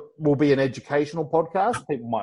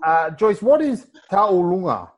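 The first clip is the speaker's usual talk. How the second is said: put-on Tongan accent; 4 semitones higher, 3 dB louder than usual. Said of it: "I'm gonna say it in my very best Tongan accent".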